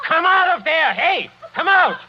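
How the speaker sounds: high, loud command; shouting. Acted. Count yells at Ilona behind tapestries, loud. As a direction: drag her out with the voice.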